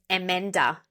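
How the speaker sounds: Emenda with "eh" vowels; Emenda, the name as Indian ears hear it; misheard name. Shown as a demonstration. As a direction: say Emenda as "eh-MEN-da". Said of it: "they hear eh".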